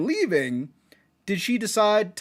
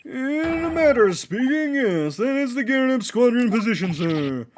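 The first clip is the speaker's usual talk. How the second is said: put-on old soldier holding forth proudly; pompous war-veteran bluster in character; blustering military foreman; 6 semitones higher than usual. Foreman answers the judge.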